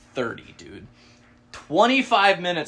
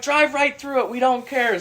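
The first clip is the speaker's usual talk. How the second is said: put-on high, louder carefree old lady; old lady's voice; 12 semitones higher, 7 dB louder than usual. Landowner lady telling them to drive through, high and carefree. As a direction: toss it off, she doesn't mind. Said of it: "She's like".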